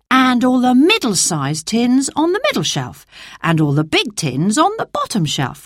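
Dan. Acted. Dan sorting tins to himself, lightly voiced boy. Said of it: "thought Dan".

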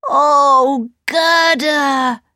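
high exclamation of recognition; crying out. A narrator's reading. Kay suddenly recognises Gerda, crying out. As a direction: cry out on knowing an old friend. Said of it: "Kay cried".

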